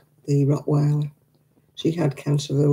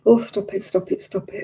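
choked up; 4 semitones higher than usual. Real, not acted. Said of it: "I'm getting all emotional now".

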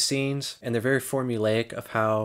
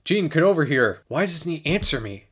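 loud, higher, exasperated shout; mock calling out; 6 semitones higher, 6 dB louder than usual. Crew calling an actor on set, mock impatient shout. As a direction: call out loudly as an impatient crew boss. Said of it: "what they called him on set".

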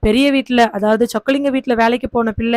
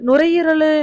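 nuரையீரலு tried out high and unsure, like a half-remembered word; groping for the word; 5 semitones higher, slower than usual. Acted. Grieving father to Muthumani, unsure of the word, நுரையீரலு tried out. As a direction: reach for நுரையீரலு as if unsure it is right. Father fumbles the disease name.

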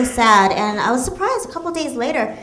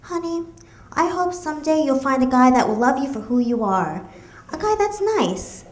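sweet mom voice. Retold or imitated. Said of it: "told me in a sweet voice".

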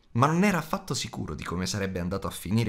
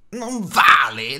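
slow rising creature hiss, louder; Gollum hissing; 6 semitones higher, 9 dB louder, much slower than usual. A narrator's reading. Gollum protests to Bilbo, slow rising hiss. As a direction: Gollum drags the words out in protest. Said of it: "sibilò".

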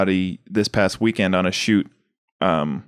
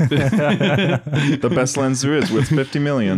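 laughing through; 4 semitones higher, slower than usual. Acted. Joke about fifty million.

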